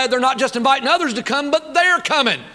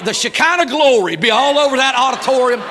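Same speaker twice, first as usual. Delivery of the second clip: loud, laughing as he says it; 5 dB louder than usual. Real, not acted. Preacher teasing the crowd about their phones, laughing. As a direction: laugh through the joke.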